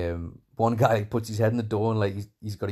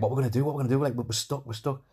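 higher-pitched, repetitive imitation of panic; retold panicky pleading, pitched up; mock panic; 5 semitones higher, faster than usual. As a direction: lightly act out a trapped girl fretting. Acting Matilda panicking, trapped.

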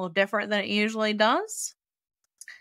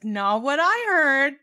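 defiant retort; 5 semitones higher, 5 dB louder, slower than usual. Retold or imitated.

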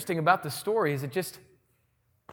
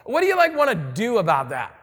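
excited guards; 4 dB louder than usual. Retold or imitated. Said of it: "The guards are like".

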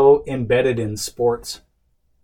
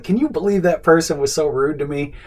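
higher, mildly indignant mock complaint; indignant retelling; 5 semitones higher, 3 dB louder than usual. Husband griping to wife about a rude caller, mildly indignant. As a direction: replay a miffed complaint with light self-mockery. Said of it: "they were kind of rude to me".

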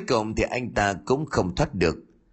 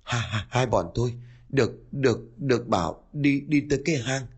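gasping, stuttering last words; dying words; 2 semitones higher than usual. Acted. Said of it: "nói ra những lời cuối cùng".

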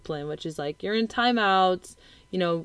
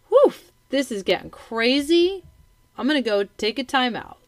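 overwhelmed sigh; 5 semitones higher, 4 dB louder than usual. Retold or imitated. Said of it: "but more like".

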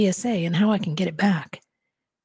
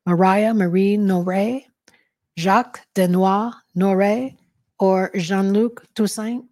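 slow, deliberate roll call of names; reciting names; 4 dB louder, slower than usual. A narrator's reading. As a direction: read each name out slowly and carefully. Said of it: "recites three names".

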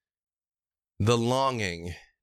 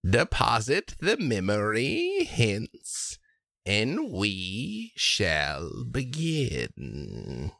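slow ritual hag; much slower than usual. Acted. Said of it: "And she says".

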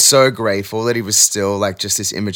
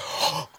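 sharp gasp; 13 dB quieter than usual. Retold or imitated. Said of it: "I was like".

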